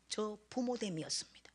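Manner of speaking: breathy whisper of shame; whispered confession. Real, not acted. Mother confessing to the congregation, whispered. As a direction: whisper the admission.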